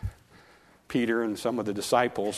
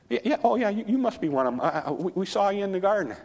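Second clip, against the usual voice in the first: much higher, needling accuser's voice; accusing bystander; 9 semitones higher, faster than usual. Acted. Bystander by the fire accusing Peter, high and needling. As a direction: pin him down, sure of yourself.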